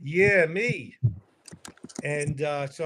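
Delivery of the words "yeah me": eager volunteer. Retold or imitated. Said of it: "I was supposed to go".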